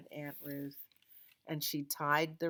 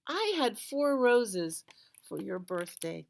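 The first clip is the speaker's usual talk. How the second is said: higher, louder eager telling; excited; 5 semitones higher, 8 dB louder than usual. A narrator's reading. Rosie telling Aunt Ruth about her roses, excited. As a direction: tell it all in a rush of feeling. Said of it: "cried Rosie".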